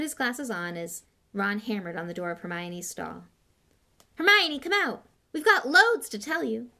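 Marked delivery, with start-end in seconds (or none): 4.2-6.7 high, loud excited call; raised voice, pitched up high and eager. A narrator's reading. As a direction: call urgently through a closed door. Ron calls through stall door.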